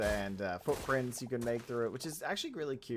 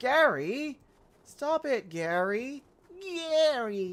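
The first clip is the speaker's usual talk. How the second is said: loud, very slow, drawn-out cartoon voice; 13 semitones higher, 6 dB louder than usual. Spotting a snail, the speaker calls out to it, attempted SpongeBob voice. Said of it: "I can't do the SpongeBob voice".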